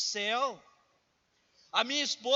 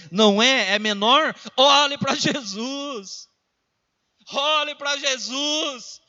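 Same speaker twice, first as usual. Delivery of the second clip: preaching at full force; 3 semitones higher, 10 dB louder, slower than usual. Acted. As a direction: hammer the call to look at Jesus. (pregação inflamada, alta e arrastada)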